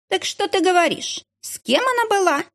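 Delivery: high, eager gossiping woman; curious gossip. A narrator's reading. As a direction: lean in, hungry for gossip. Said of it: "заинтересованно произнёс". (любопытная сплетница, высоким голосом)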